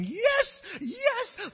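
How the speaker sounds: very high, loud cry of joy; elderly woman shrieking for joy; joyful shriek. Retold or imitated. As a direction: leap with the word. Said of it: "starts jumping".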